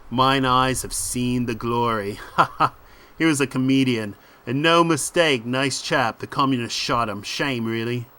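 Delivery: lightly voiced dismissive ringleader; punchy, assured patter in short phrases; cocky British crook. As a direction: brush off your mate's worries. Voices confident Steve.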